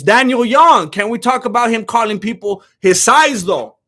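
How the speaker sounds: reading the comment out loud and punchy; loud chat readout. Real, not acted. Streamer reads a viewer's question out loud, loud and punchy.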